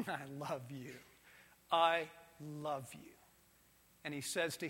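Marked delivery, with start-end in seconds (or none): 0.1-3.1 soft, low, tender voice; tender hushed love. Acted. God the Father softly telling Jesus he loves him. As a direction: breathe it gently like a proud father. God's tender words to son.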